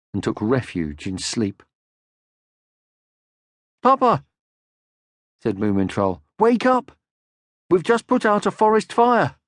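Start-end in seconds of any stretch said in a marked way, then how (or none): 3.8-4.2 put-on high, loud child calling; excited young troll voice; Moomin Troll. 6.4-9.4 put-on high, loud child calling; excited young troll voice; Moomin Troll.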